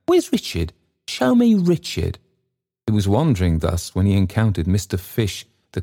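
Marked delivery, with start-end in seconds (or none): 0.1-2.2 very high, pleading cry; grief-stricken confusion. A narrator's reading. Trotty looking for his guide, confused by grief, pleading. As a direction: plead like someone lost and bereft. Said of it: "Trotty's grief and solitude confused him".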